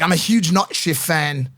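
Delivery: slow, clumsy attempt at Irish; bad Irish accent. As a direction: imitate a fan in a shaky Irish accent. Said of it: "I'm trying to do Irish".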